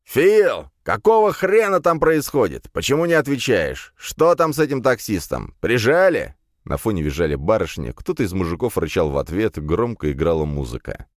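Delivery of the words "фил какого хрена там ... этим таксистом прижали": put-on high, loud drunken boss voice; tipsy Edik. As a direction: slur and shout down the phone. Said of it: "подвыпивший голос Эдика".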